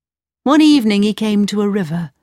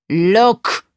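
crying out; 3 dB louder than usual. Acted. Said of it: "cried the Sultan".

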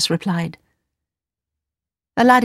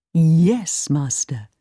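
genie; 3 semitones lower, much slower than usual. Acted. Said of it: "said the genie of the ring".

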